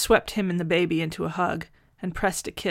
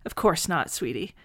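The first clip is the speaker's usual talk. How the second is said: brisk. Acted. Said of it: "she said briskly".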